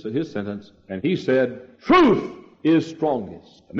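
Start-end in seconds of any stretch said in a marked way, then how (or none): 1.8-3.6 shouted proclamation. Retold or imitated. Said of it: "stood and shouted his".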